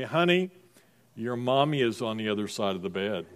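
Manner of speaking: put-on half-asleep, pass the kid off to mommy; dad murmuring from bed to his child; groggy dad.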